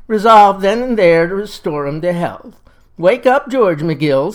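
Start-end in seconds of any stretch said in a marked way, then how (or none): 3.0-4.3 stern father call. Acted. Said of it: "says my daddy".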